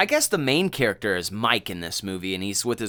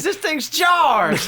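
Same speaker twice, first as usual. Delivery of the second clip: high, loud, slow yell with a laugh; laughing mock farmer shout; shocked farmer; 7 dB louder, much slower than usual. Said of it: "He says".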